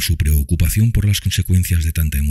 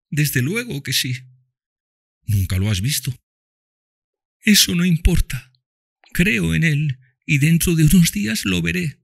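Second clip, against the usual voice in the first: put-on high child voice, tender; dying girl speaks lovingly to Tom and Mami, high child voice; loving little girl; 14 semitones higher than usual. A narrator's reading. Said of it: "ferviente euforia".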